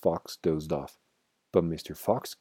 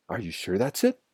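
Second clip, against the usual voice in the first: usual speaking voice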